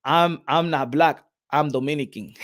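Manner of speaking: slow, lightly put-on Latin accent; mild Dominican-style Latin accent. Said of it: "in a Latin accent".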